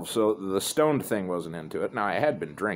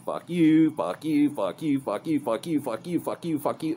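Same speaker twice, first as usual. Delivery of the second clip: higher-pitched, rattled-off string of curses; mock cursing dad; 4 semitones higher than usual. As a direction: imitate dad telling off one person after another. Dad telling everyone off, quoted.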